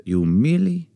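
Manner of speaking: a lightly put-on Chinese accent, slow; mock proverb-sage voice, barely changed; bad Chinese accent. Wife's podcast cohost hears a bad Chinese accent. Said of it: "I do terrible accents".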